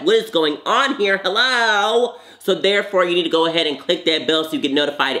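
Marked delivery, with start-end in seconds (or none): 0.0-2.2 high indignant hello; mock outrage. Real, not acted. Complaining to viewers about notifications, mock outrage. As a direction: act scandalized.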